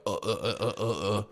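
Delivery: mock flustered "uh" sounds; string of stuck, stammered uhs; flustered stammering. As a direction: imitate someone caught out, stuttering. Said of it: "she'd get all like".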